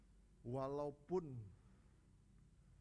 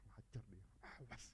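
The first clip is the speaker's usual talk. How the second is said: much softer, a grumbled threat under the breath; muttered threat; 5 semitones lower, 10 dB quieter than usual. Pretend. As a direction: mutter it resentfully to yourself. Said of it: "pasti ngomong gini".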